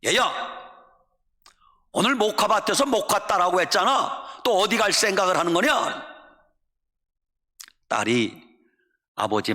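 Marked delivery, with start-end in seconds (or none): 0.0-6.0 mock-angry father scolding his daughter; raised pitch, only mildly shouted rebuke; father yelling. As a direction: play a father demanding an explanation. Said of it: "아버지가 냅다 소리를 지릅니다".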